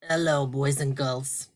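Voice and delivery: lightly voiced shy puppet greeting; a hint of a sleepy puppet saying hello; gentle puppet voice for the class; puppet Tony. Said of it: "Can you say hi to the boys and girls, Tony?".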